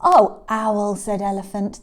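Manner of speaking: loud, mock-miserable call; woeful elephant. Elephant to Owl at night, woeful. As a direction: call out for comfort.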